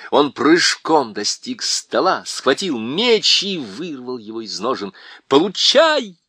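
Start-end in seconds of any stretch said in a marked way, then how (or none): 5.3-6.2 high loud strike shout; battle shout. A narrator's reading. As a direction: yell it as the sword falls. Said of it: "крикнул он". (громкий боевой крик)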